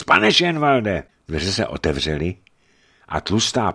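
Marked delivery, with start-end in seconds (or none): 0.0-1.0 high, loud, drawn-out anxious cry; urgent cry through a door; frightened call. A narrator's reading. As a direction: call his name louder, alarmed. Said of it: "za dveřím ustrašený hlas".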